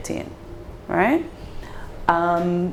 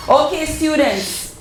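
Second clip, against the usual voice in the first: teacher addressing class; 6 semitones higher than usual. Pretend. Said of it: "let's do it like prep school days".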